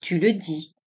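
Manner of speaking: understated tenderness with a touch of doubt; mild, doubting sweetness; tender, melancholy doubt. A narrator's reading. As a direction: say it gently, lightly tinged with melancholy. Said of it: "avec une douceur infinie et un accent de doute et de mélancolie".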